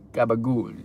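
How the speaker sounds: Italian accent with a long final vowel. Shown as a demonstration. Streamer obliging a viewer's request, Italian accent. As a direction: say it like an Italian, stretching the end. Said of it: "Say gabagool with an Italian accent".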